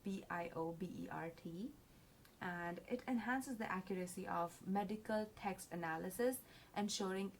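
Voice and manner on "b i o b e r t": "B I O B E R T" named letter by letter; spelled out. Shown as a demonstration. Presenter spells a tool's name for the audience, letter by letter. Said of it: "which is pronounced as".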